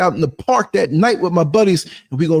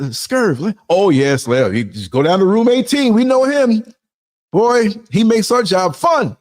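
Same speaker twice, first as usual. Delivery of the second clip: imitating nurse; 4 semitones higher than usual. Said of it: "But you come".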